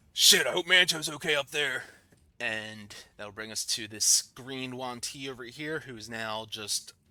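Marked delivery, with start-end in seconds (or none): 0.2-1.9 sudden, loud, high shout in a character voice. Voicing a character as the ship's hull is damaged: character yelling out. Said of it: "he kinda yells out".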